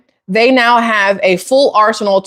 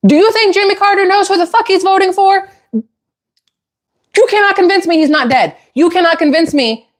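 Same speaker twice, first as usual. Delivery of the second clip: much higher, incredulous outburst; exasperated rant; 10 semitones higher than usual. Real, not acted. Vlogger ranting to viewers about Carter's vote, high and incredulous. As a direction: voice shooting up in disbelief.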